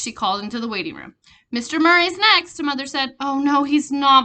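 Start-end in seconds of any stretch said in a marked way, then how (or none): 1.5-2.6 insistent mother. Acted. Mothers arguing over turn. 3.2-4.2 called out. Acted. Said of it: "another mother called".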